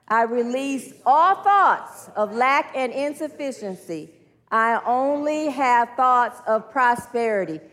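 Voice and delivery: slow, deliberate group-led affirmation; measured declaration, leaning on key words; leading affirmations. Acted. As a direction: declare it slowly for a room to repeat.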